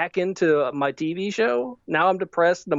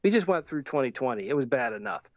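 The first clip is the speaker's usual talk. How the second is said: somber; 6 semitones lower, 3 dB quieter than usual. Real, not acted. Somber turn about suffering.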